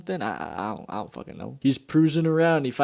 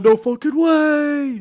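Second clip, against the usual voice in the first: high, loud, drawn-out disbelief; hammed-up shriek of astonishment; mock amazed yell; 14 semitones higher, 7 dB louder, much slower than usual. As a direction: stretch it out in shrill mock shock.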